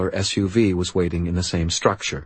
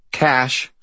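demanding; 5 semitones higher than usual. Acted. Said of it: "I demanded".

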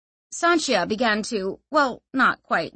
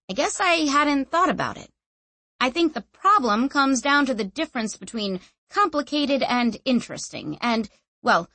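higher-pitched, musing figure; casual explainer character; 4 semitones higher than usual. Acted. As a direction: think it through offhandedly, hedging politely. Narrator voices Clef musing.

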